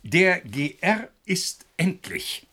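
slow, dramatic whisper; hushed reveal. Acted. A scientist breaks the news to his colleagues in a slow whisper. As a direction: drop to a whisper for the big news. Announces the secret result.

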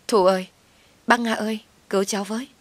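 desperate cries for rescue; crying for help. Acted. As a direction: call out to be rescued, voice climbing. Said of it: "Cô ta kêu cứu".

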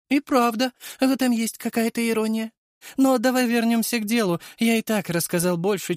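high, mocking creature voice; sneering worm king voice. A narrator's reading. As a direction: voice an amused parasite villain. Villain offers eternity.

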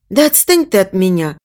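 ordinary delivery, nothing marked

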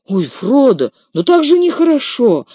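high, tearful reproach; a trembling, hurt plea to Frodo; high and loud, near tears. A narrator's reading. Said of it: "дрожа плачущим голосом".

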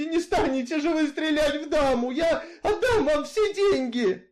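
put-on high, loud, desperate begging old woman; pleading grandmother. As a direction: beg him not to shoot, voice way up. Grandmother begs for her life. (высокая громкая отчаянная мольба)

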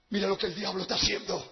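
low, soft voice of God; hushed divine voice. Retold or imitated. God shows the preacher the devil's work, hushed. God speaks softly to him.

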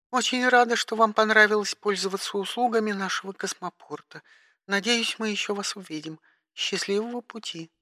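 high, clipped dispatcher tone; operator voice. Acted. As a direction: speak like a bored spaceport operator. (голос диспетчера)

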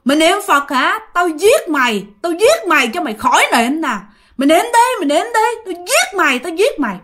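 high, shrieking threats from a choking ghost; ghost cursing. Retold or imitated. Ghost strangling the girl and cursing her prayer, shrieking high threats. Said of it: "bà vừa bóp bà vừa chửi".

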